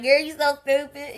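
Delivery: loud, high teasing call; playful tease. Retold or imitated. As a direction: cackle it at your own joke. Quoting her own playful comment.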